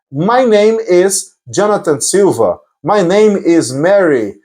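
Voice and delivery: slow, careful demonstration for learners; slow model answer. Shown as a demonstration. Teacher showing a learner how to answer, slowly. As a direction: give each word plenty of time.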